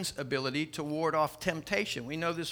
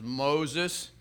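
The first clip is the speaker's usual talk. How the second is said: lightly voiced parrot, plain-spoken; parrot's answer. Parrot giving its name to the burglar, understated. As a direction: answer simply, at an ordinary pitch. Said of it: "He says".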